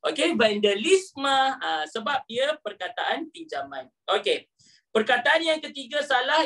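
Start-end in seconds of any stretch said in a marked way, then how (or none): 0.4-1.6 vandalisme said slowly, ending ma; spoken as vandalisma. Shown as a demonstration. Teacher showing the class that vandalisme ends as ma. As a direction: stretch vandalisme, final syllable ma. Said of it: "sebutan dia ma".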